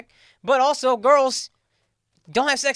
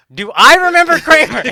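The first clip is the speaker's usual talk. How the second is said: mock incredulous Jerry; 7 semitones higher, 12 dB louder than usual.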